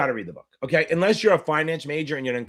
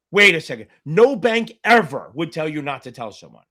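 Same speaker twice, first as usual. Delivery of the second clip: louder, insistent retold protest; sharply louder mock alarm; firm louder exclamation; 6 dB louder than usual. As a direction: raise the voice to stop her. Retold confronting mother over scam.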